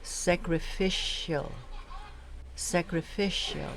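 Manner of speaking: "sacrificial" said carefully, stress on FISH; pronunciation demo. Shown as a demonstration. Trainer shows lectors a word, "sacrificial" enunciated carefully. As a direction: model "sacrificial" syllable by syllable, sac-ri-FISH-al.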